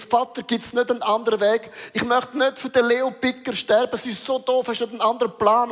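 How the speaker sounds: pleading Jesus. Retold or imitated. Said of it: "sagt Jesus".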